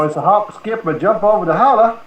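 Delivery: Southern twang demo; Southern accent. Shown as a demonstration. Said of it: "like, I'm Southern".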